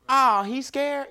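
slow teasing onlooker voice; mock bystander taunt. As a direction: drag it out like a heckler. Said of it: "hear some of the things".

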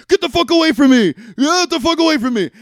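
hammed-up panicked yelling; overacted scream at everyone; bad acting. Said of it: "the worst acting I've ever seen".

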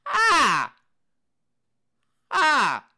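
high, loud cackling laugh; real burst of loud high laughter; loud cackle. Real, not acted. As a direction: cackle at your own joke. Laughing at own joke.

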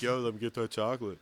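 a hint of a casual bro asking for chocolate; breezy, offhand bro ask; lightly voiced Ben. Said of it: "Ben's like".

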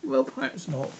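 high-pitched, placating reply; soothing. A narrator's reading. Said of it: "said Alice in a soothing tone".

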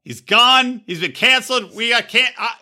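high-pitched comic incredulity; mock disbelief. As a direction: play up being scandalised, pitch climbing. Co-host drops out, mock outrage.

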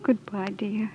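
tender goodbye whispered. Acted. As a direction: whisper a last farewell, softly. Tearful farewell whispered alone.

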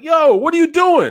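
high, loud challenge to a culprit; retold confrontation. Catching a kid stealing caps, loud retold confrontation. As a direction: call out sharply in mock outrage.

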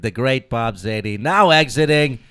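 slow, lightly voiced host announcement; a hint of a game show host, drawn out. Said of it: "I love doing the game show voice".

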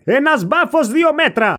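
slow, drawn-out comic voice; slow mock voice. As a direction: stretch it out like a joke announcement. Comic voice announcing a banner. (αργή κωμική φωνή)

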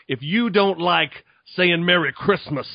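rolling black preacher cadence on "If you don't like saying Merry Christmas"; lightly voiced black preacher cadence; black pastor preaching. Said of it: "now I'm doing black pastor".

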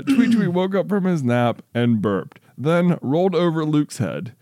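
deliberate, lilting storybook reading; story read-aloud. Real, not acted. Reads child's story aloud.

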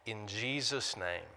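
slowed, softening prayer that drops toward the amen; pastoral prayer. Acted. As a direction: pray humbly over the congregation. Leads congregation in prayer.

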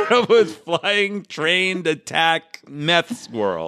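slow, laughing emphasis. Real, not acted. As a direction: drag it out through laughter.

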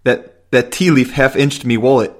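a hint of amateur Cockney; put-on Cockney accent. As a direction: lightly attempt a Cockney accent. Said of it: "sorry for that, that accent there".

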